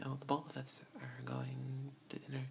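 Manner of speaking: both with an added L, bolth. Retold or imitated. Speaker catching her own local bolth. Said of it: "catch myself sometimes saying".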